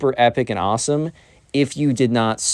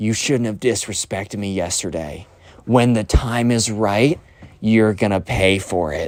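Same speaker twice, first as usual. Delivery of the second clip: whispered voice; 2 semitones lower than usual. Speaker retelling what Ben the furry whispered to Benji, retelling a whisper. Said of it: "whispers to him".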